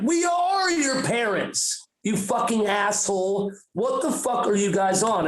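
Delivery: retold parental scolding; angry parents. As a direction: insist indignantly like a fed-up parent. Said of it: "they even get angry like your parents".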